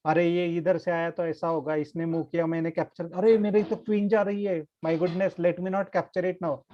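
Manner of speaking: quick self-talk, lightly acted; thinking aloud. Shown as a demonstration. Chess teacher showing kids how to reason, thinking aloud. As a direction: run through the moves as if talking to yourself. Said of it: "talk to yourself".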